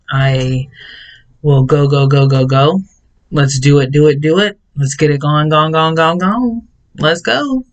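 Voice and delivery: rally the crew, climbing in pitch; pumped-up urging. Retold or imitated. Vlogger mimicking herself rallying the store crew, pumped up. Workaholic self-portrait, urging team on.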